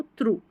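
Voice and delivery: 'थ्रू' ending in long OO; correct reading. Shown as a demonstration. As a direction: answer with a clear OO in थ्रू. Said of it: "पढ़ना क्या आपको?". ('थ्रू', ऊ के साथ)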